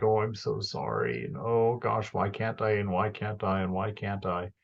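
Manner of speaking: meek, soft, apologetic whimper; timid, self-pitying mumble; mealy-mouthed apology. Retold or imitated. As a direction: mumble it like you're sorry for existing. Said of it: "be mealy-mouthed about failure".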